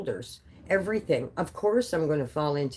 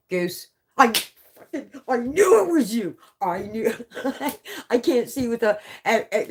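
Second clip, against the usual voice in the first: much higher and louder, laughing with delight; excited greeting; 4 semitones higher, 4 dB louder than usual. Real, not acted. Greeting Goose Chuck, a viewer she just recognized, with excited laughter. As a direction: burst out in thrilled recognition.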